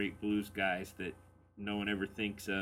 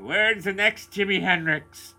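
mock crowd question; 11 semitones higher, 14 dB louder, slower than usual. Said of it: "everybody went".

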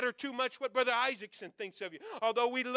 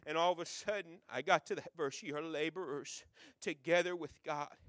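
soft intimate talk; 5 semitones lower, 5 dB quieter than usual. Real, not acted. Quiet, intimate aside after the verse.

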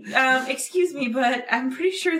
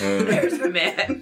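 Batman voice; 2 semitones lower, much slower than usual. Pretend. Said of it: "I could go full Batman".

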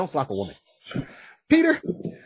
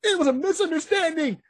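higher explaining voice; 13 semitones higher than usual. Retold or imitated. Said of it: "Wasp explains".

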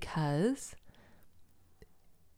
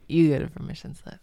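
louder, punching YOU like a host; loud carnival barker; 7 dB louder than usual. Pretend. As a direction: hand out prizes to the crowd. Oprah-style giveaway announcement.

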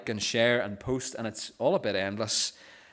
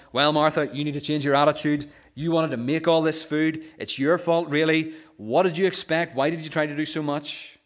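loud, high, scolding Jesus that he is not; a mock harsh rebuke, louder and higher; 4 semitones higher, 6 dB louder than usual. Preacher showing how Jesus did not speak: loud harsh rebuke. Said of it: "that's not what Jesus is like".

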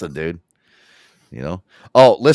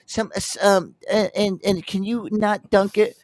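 mock clueless customer; 11 semitones higher than usual. Tourist ordering Italian beef, hammed-up and hesitant. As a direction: dither through the order in a high voice.

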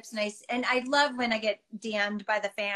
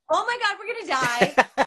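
mock panic; 7 semitones higher, 5 dB louder than usual.

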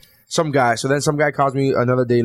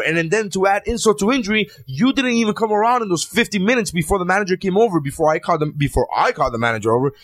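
higher-pitched, worked-up rant; real rage; 4 semitones higher than usual. Real, not acted. Ranting to friends about the server, really worked up. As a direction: vent it, pitched up and indignant. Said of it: "he's in rage".

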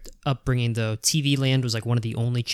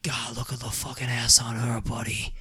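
put-on coworker's Boston accent; 4 dB quieter than usual. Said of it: "like, Boston accent".

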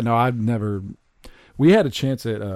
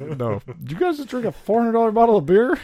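high, loud disbelief; incredulous at the price; shocked disbelief; 12 semitones higher, 4 dB louder than usual. Retold or imitated. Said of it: "It's like".

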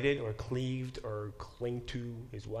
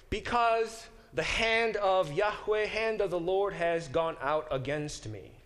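anguished cry; 7 semitones higher, 4 dB louder than usual. Acted. Naomi's lament read aloud.

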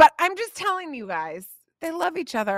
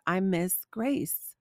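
put-on slow, softer child's longing; sincere; 5 semitones lower, 4 dB quieter, slower than usual. Daughter confiding in her mom, sincere. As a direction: say it slowly and sincerely, like a wistful child. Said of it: "looked at me so sincerely and said".

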